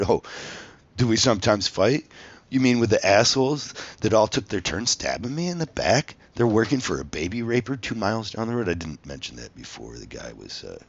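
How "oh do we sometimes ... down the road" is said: indignant, raised-voice comeback, toned down a little; rising sarcastic outrage in retelling; animated retort. Retold or imitated. Contestant retelling his reply to the interviewers, animated and indignant. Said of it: "I said it more animated than that".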